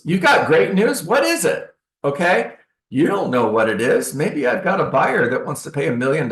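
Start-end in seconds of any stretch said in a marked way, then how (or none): 0.1-1.8 curious homeowner. Retold or imitated. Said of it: "Raise your hand if you want to hear the news".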